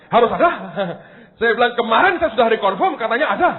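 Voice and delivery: reenacted indignant objection; acted insistence. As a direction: insist your booking exists, playing up the argument. Acted argument with counter clerk.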